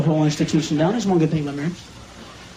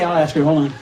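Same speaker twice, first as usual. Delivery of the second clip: ordinary delivery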